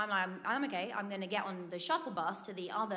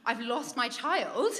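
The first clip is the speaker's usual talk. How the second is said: mock full panic; 2 semitones higher than usual. Dad who has lost his child, mock panic. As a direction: imitate a parent panicking, lightly hammed up. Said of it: "in full panic mode".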